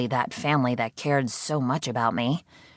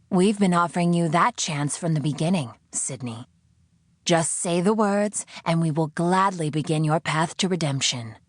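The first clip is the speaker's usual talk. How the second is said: coaxing captor; 3 semitones higher than usual. Acted. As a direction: lure her with reconciliation. Voice offers redemption.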